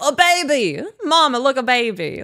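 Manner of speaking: put-on high, loud excited little kid squeal; excited child. Kids in public spotting a baby, excited squeal. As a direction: squeal it like a thrilled small child. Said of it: "they go".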